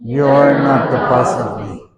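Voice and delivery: put-on slow, sassy child defiance; mock sassy child. Shown as a demonstration. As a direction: talk back like a sassy kid. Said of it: "Everybody repeat".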